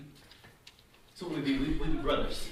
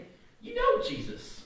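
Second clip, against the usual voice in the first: accusing bystander. Retold or imitated. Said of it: "looking at him and said".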